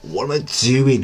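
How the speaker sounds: slow, disbelieving question to yourself; dragged-out self-mocking what am I doing; mock disbelief. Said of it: "you just look at yourself and go".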